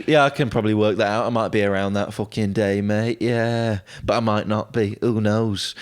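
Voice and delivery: Ethan. Retold or imitated. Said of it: "Ethan just goes".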